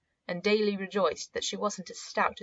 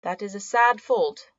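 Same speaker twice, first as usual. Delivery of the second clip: mock grieved; 6 dB louder than usual. A narrator's reading. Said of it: "he sighed as if grieved".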